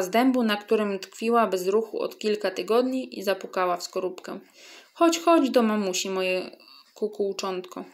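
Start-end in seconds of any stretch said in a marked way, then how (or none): 4.9-7.8 tender cooing. Acted. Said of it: "zakukała pieszczotliwie".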